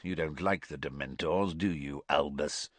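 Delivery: soft, low mocking tease; gruff old man, quietly sardonic. A narrator's reading. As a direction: needle him with a dry smile. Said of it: "with a sardonic smile".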